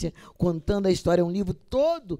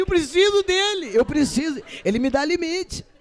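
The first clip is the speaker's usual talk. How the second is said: high, louder insistence; high earnest reply; 10 semitones higher, 4 dB louder than usual. Retold or imitated. Answering her colleague about the inner voice, high and insistent. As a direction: insist on it, pitched up. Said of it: "Eu falei".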